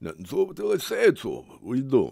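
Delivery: put-on Italian-accented boxer voice. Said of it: "I go too Italian when I do that".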